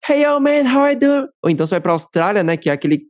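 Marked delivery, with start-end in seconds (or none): 0.1-1.3 put-on high, loud Californian surfer-dude accent; a mock Californian accent, pitched up. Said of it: "os caras falando".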